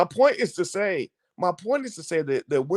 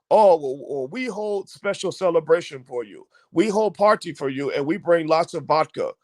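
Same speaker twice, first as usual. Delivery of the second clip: lightly put-on Russian accent. Russians coaxing scientists with a party, mock Russian accent. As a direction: imitate Russians with dropped articles and a Russian accent. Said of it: "So the Russians were trying".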